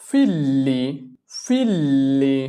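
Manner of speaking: ফিল্লি with a doubled, held l; Italian figli. Shown as a demonstration. Teacher models ফিল্লি for Italian learners, slow and clear. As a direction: say ফিল্লি as fil-li, the l lengthened. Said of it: "দেখো দুইটা ল উচ্চারণ আসতেছে".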